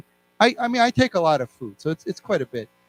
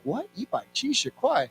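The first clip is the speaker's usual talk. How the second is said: higher, incredulous repeat of the price; retold shock; 7 semitones higher, 5 dB quieter than usual. Customer reacting to a cafeteria bill, shocked. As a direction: imitate a stunned double-take question. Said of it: "I was very shocked".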